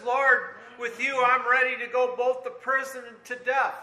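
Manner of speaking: Peter's loud, passionate vow; fervent vow. Acted. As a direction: swear it with all his heart. Voicing Peter's pledge to Jesus.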